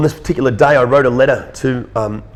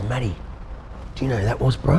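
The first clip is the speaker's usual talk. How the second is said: hesitant warning; 5 dB quieter than usual. Retold or imitated. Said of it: "very hesitantly walks up to me".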